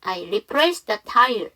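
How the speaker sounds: "replaced the" with the D left silent; dropped D sound. Shown as a demonstration. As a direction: glide from the S of "replace" straight into "the". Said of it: "D 발음 하지 마세요".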